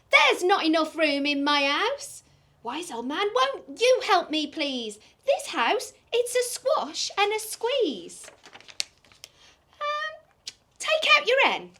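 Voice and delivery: old lady and wise old man, lightly acted; lightly voiced characters. Storyteller acting out the lady and the old man. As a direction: read the dialogue with a touch of character.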